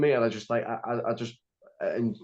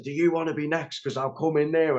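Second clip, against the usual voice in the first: higher-pitched mock shout; retelling a shouted threat, pitch raised; retold shouting; 4 semitones higher than usual. Man threatening a ticket attendant, retold shouting. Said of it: "I just started shouting at him".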